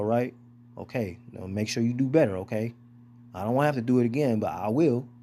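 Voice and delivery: lightly voiced gentle dad calming his child; tender parent voice. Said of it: "when they done being angry".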